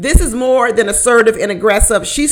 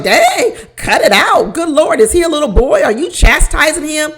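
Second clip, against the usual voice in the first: mock shocked reaction; 5 semitones higher than usual. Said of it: "I was like".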